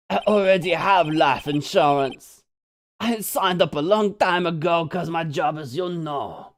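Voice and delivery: lightly voiced laid-back surfer; casual surfer dude, subtle. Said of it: "the other voice I gave him".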